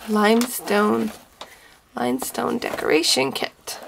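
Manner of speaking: "Limestone" said carefully with an L sound; misprint read out. Real, not acted. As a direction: spell out "Limestone" as the label has it, with L. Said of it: "Should be rhinestone R H".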